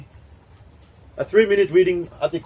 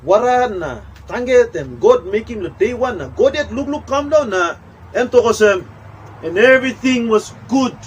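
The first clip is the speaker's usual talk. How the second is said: storyteller voice; 3 semitones higher than usual. Acted. Acting out Genesis story in Tok Pisin.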